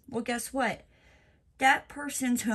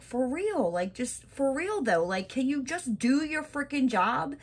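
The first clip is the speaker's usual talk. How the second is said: sassy telling off; 2 semitones higher than usual. Retold or imitated. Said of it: "and I'm just like".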